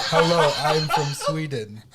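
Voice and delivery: mock Swedish. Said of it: "Aaron's like".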